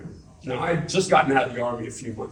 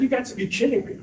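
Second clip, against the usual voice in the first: disbelief; 12 semitones higher, faster than usual. Retold or imitated. Retold shock at recruiter's news.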